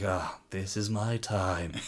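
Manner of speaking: lightly hammed-up martial arts master, slow and building; mock-righteous declaration; master's self-talk. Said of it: "the master sits there and is like".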